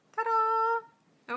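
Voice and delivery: high, loud ta-da reveal; proud showy reveal; excited ta-da. Real, not acted. Reveals finished eyeliner.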